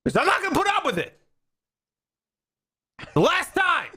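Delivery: high, fast hammed-up parental scolding; mock yelling parent. Parent scolding the kids, mock high yelling. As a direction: rant at the kids like a worn-out parent. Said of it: "I'm yelling at my kids".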